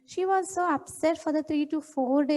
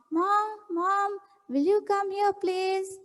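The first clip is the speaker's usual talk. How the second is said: a little girl's raised call, mildly voiced; calling mom; 5 semitones higher, slower than usual. Girl calling her mother to come, mildly voiced. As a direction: lightly call out for mother like a child. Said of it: "she called her mom".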